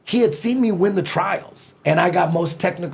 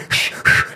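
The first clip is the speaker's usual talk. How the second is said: sharp sniffing breaths. Retold or imitated. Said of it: "he's doing all these breathing".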